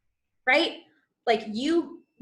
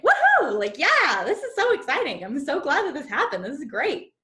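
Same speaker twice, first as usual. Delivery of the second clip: much higher, loud whooping with a laugh; celebration; 4 semitones higher, 4 dB louder than usual. Shown as a demonstration. Coach shows celebrating a goal to her audience, whooping. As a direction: cheer your win out loud. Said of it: "it's more of a celebration".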